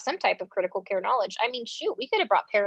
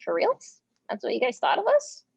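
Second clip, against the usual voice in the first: incredulous; 3 semitones higher than usual. Retold or imitated. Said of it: "And I'm like".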